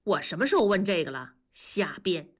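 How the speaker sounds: quick, dismissive interruption; cutting in. Acted. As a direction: cut the child off mid-letter. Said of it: "文丽打断地说".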